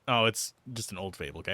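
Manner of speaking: ordinary talk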